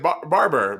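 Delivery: careful repeat of Barber, r pronounced; clarifying pronunciation. Shown as a demonstration. Correcting a co-host who misheard the name, sounding out Barber. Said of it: "uh, no, like".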